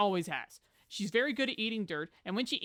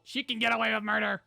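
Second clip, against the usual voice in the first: loud, higher exclamation; emphatic admission; 4 semitones higher, 8 dB louder than usual. Real, not acted. Owner admitting the dog gets away with anything, loud and emphatic. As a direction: belt it out as a full admission.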